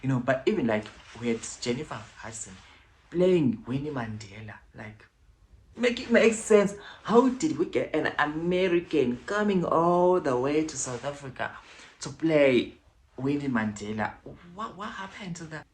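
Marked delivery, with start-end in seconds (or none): 5.8-10.2 high, loud exasperation; exasperated. Real, not acted. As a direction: demand it in disbelief. Exasperated rhetorical demand.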